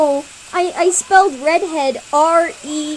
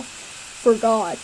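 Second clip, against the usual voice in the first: deep boy attempt; 3 semitones lower than usual. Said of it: "I can't do deep voices".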